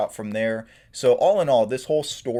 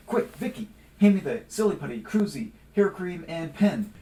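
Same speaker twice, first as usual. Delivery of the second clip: urgent orders; 4 semitones higher than usual. Acted. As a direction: rattle off the list in a hurry. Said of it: "Please excuse my bad acting".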